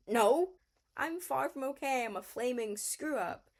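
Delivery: loud, high "no", then easing; retold upset outburst. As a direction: imitate a self-loathing outburst. Retelling Sutter's upset outburst.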